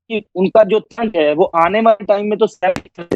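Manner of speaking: dropping out on a bad line; voice cutting out. Real, not acted. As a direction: audio breaking up mid-sentence. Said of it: "آپ کی آواز کٹ گئی ہے". (آواز کٹ کٹ کر آ رہی ہے)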